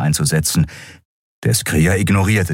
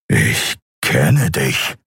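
calm; 4 semitones lower, much slower than usual. Acted. Kai faces Keru.

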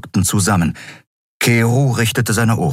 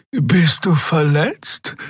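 slow, higher, gently worried; concerned; 9 semitones higher, much slower than usual. A narrator's reading. Xea checking on the wounded Keru, slow and concerned. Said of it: "fragte Xea besorgt".

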